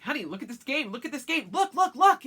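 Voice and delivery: mock excited husband. Husband showing off new Steam game, mock giddy excitement. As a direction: play the husband begging her to see his game. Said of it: "he's like".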